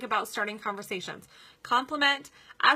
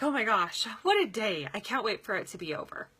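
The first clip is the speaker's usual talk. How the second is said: weary sigh. Shown as a demonstration. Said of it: "So I'm making a statement".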